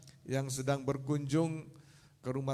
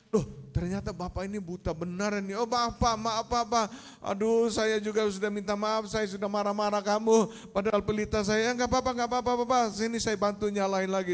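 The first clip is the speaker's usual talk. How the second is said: higher-pitched flustered apology; apologetic; 5 semitones higher than usual. Acted. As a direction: apologise hurriedly to the blind man. Young man apologises to blind man. (minta maaf dengan nada naik)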